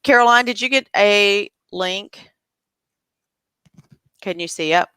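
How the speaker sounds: talking around a cough drop; cough drop in mouth. Real, not acted. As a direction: speak with a lozenge in your mouth. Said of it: "I have a cough drop in my mouth".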